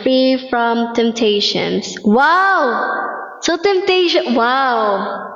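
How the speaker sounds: sarcastic. Acted.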